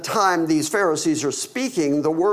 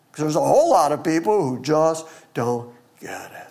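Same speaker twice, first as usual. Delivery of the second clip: hushed aside, almost unvoiced; whisper; faster than usual. Real, not acted. Preacher whispering an aside to the congregation. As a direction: lean in and whisper it to the room.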